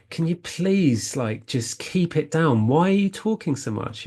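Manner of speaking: a touch of retold irritation; annoyed retort. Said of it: "And I got so upset".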